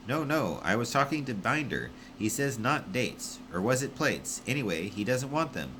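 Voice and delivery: a flustered relay man sorting the mix-up; flustered Wish. Acted.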